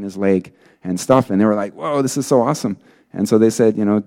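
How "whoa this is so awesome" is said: higher, awed exclamation; mildly acted wow reaction; retold amazement. Youths see the man's leg healed, amazed.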